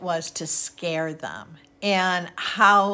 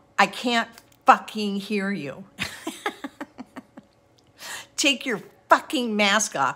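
put-on furious outburst, ranting. Retelling replies to a masked woman who cannot be heard: imitating own furious outburst. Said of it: "I was so flipped out".

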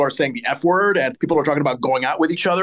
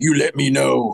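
jokey, playful, manly tough-guy voice. Recounting Carl getting up from the couch to tell Laura: imitating Carl's playful, manly voice. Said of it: "in a playful, manly voice".

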